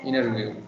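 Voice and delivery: "Interview" as innerview, T dropped; "Interview" with the T swallowed; American interview. Shown as a demonstration. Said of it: "they will say".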